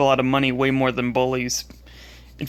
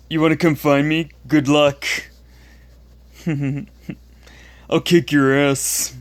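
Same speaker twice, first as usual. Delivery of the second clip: put-on belligerent drunk. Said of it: "the ones that I, I quoted".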